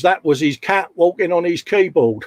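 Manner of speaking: reads the line through real laughter; can't hold the laugh back while reading it out; laughing mid-sentence. Real, not acted. Reading a funny chat message.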